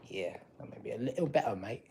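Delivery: put-on a light, jokey British accent, slipping into "mate"; tossing in a casual British accent while painting. Painting a door, chatting to viewers in a mock British accent. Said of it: "Sorry I keep doing this stupid ass accent".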